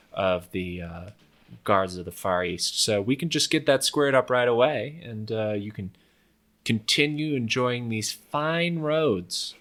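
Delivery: lightly voiced roadside swindler naming the price; toll collector haggling. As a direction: lightly play a crooked official squaring things up. Game master plays toll collector.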